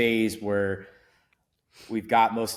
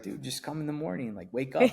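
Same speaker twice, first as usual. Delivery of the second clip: put-on Italian accent; 5 semitones higher, 4 dB quieter than usual. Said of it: "in his Italian accent".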